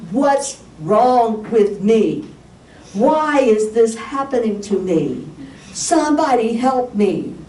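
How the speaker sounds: slow, pleading mock lament; crying, frustrated. Patient lying in bed crying out for help, frustrated. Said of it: "I was crying, frustrated".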